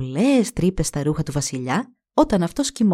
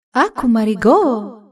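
higher, louder, slow hushed call; middle goddess whispering; 4 semitones higher, 5 dB louder, slower than usual. Acted. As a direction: call her name in an eerie hush. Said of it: "ψιθύρισε η μεσαία θεά".

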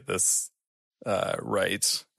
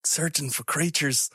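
higher-pitched, halting plea; earnest, raised voice, stumbling; pleading explorer; 5 semitones higher than usual. Acted. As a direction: plead with the creature.

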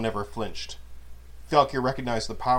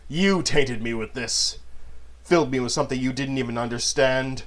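growled; 2 semitones higher than usual. Acted. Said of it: "Manon growled".

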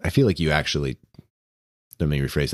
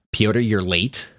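higher, curt greeting; annoyed librarian; 4 semitones higher than usual. Acted. Ian greeting late Pyotr, mildly annoyed. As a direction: snip at him for being late. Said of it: "he's almost, like, annoyed".

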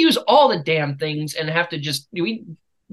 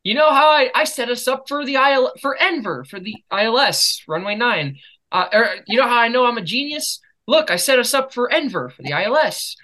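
higher, gloating brag; cocky boast; 6 semitones higher than usual. Retold or imitated. Student brags to flight instructor, gloating and high. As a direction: crow about being a genius. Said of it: "I was like".

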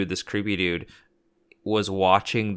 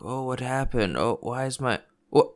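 groggy confusion; 4 semitones higher than usual. Retold or imitated. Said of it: "they wake up and they're like".

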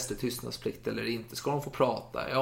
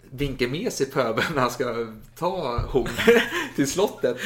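laughing; 5 dB louder than usual. Real, not acted. Laughing at Armfelt's hypocrisy.

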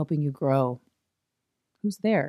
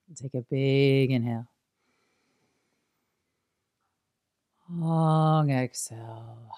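calm, spacious meditation close with long pauses; guided meditation. Acted. Teacher guiding a big inhale and long exhale, guided meditation. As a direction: ease them through the breath and out.

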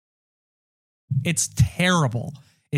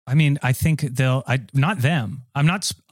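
ordinary delivery

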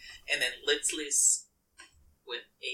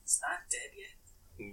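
surprised; 13 semitones higher, 10 dB quieter, slower than usual. Real, not acted. Shocked the monster lives.

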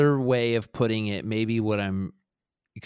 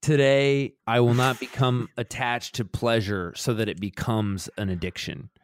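put-on Indian accent. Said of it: "he has this great way of talking".

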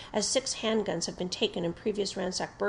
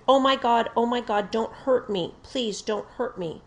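loud, higher, hysterical pleading that fades out; hysterical high-pitched scream; 2 semitones higher, 6 dB louder than usual. Retold or imitated. Suspect at gunpoint begging officer, a hint of hysterical scream. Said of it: "screamed in a high-pitched feminine-type voice and acted very hysterical".

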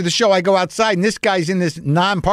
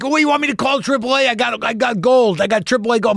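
eager fan voice; 8 semitones higher than usual. Retold or imitated. Fan offers his AAA.

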